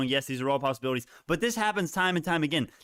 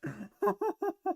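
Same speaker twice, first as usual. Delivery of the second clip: breathy high giggle; soft high laugh; 5 dB quieter than usual. Real, not acted. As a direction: giggle helplessly. Laughing at gains.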